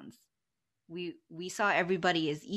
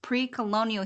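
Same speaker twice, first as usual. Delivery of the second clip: indignant scolding; 5 dB louder than usual. Retold or imitated. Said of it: "that sort of tone in your voice".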